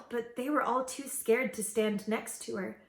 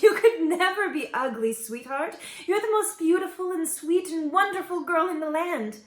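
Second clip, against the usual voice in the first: laughing; 7 semitones higher, 5 dB louder than usual. A narrator's reading. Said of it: "Laughing, the queen said".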